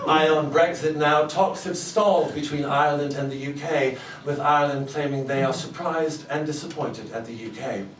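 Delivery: slow, measured newsreader delivery; news anchor read. Acted.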